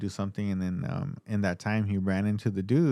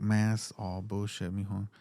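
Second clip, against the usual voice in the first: dad's small Chicano tone; 4 dB quieter than usual. Retold or imitated. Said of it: "that Chicano, almost kinda like that little small tone".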